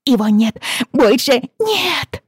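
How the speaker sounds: high, loud drawn-out wail; child wailing. Acted. Little girl wailing that her brother is gone. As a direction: cry it out, stretching the last words.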